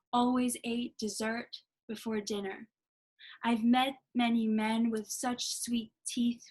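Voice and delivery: slow, deliberate poetry reading; measured lines with pauses, dropping to a hushed last phrase; poem recital. Acted. Poet reading her first poem to online viewers, slow and deliberate. Reads own poem aloud.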